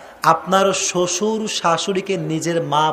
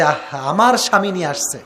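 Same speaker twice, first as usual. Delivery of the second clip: content wife; 3 semitones lower than usual. Shown as a demonstration. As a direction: say it gently, pleased with the gift. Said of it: "আপনি বলেন যে".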